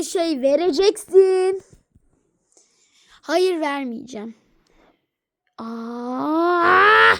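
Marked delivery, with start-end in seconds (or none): 5.6-7.1 mock yell. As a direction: blurt out "Aa!" in surprise. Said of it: "Ne bağırıyorsun?". (yüksek sesle şaşkın "Aa!")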